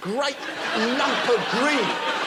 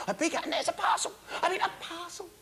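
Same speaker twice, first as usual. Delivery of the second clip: excited; 8 semitones higher, 5 dB quieter than usual. Retold or imitated. Excited about a parcel.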